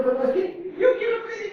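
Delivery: put-on high, fast, pleading young voice; thin high voice. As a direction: squeak it out like a boy. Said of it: "yo tenía una voz bien finita".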